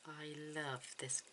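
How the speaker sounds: soft breathy whisper to herself; whispering in delight at the colour; whispered aside. Real, not acted. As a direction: murmur it under your breath, admiring.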